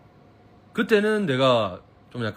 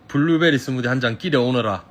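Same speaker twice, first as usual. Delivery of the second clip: mock period drama order. Shown as a demonstration. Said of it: "너무 높인 느낌이라고?".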